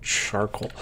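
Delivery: hiccuping between words; talking through the hiccups. Real, not acted. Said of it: "Excuse me for the, uh, hiccups".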